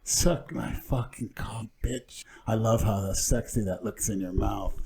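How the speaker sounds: put-on slow, soft, feminine Latin accent. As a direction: purr it slowly in a Latin accent. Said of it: "trying to do the Latin accent".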